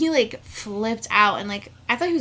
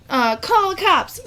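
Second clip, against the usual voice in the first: retold urgent call; 8 semitones higher, 5 dB louder, slower than usual. Retold urging friends to act.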